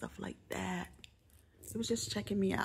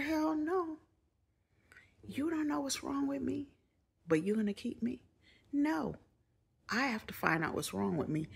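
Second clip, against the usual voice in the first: much higher, outraged refusal; a retold squeal of protest to the doctor; indignant protest; 3 semitones higher than usual. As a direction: protest hard, you cannot miss work. Refusing to stay in hospital.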